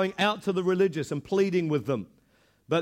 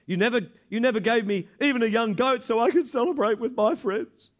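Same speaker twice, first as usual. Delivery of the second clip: put-on accusing older son; 5 semitones higher than usual. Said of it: "how he points the finger".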